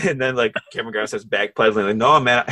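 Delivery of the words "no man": a louder, higher yelp of retreat, hammed up; mock scared backing off. Cameron Grimes retold backing away from Finn, hammed-up fright. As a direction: back away like a coward caught out.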